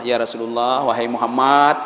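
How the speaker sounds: low-pitched address to the Prophet; Abdullah bin Ubay. Acted. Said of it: "pergi pada Rasulullah". (suara rendah menyapa Rasulullah)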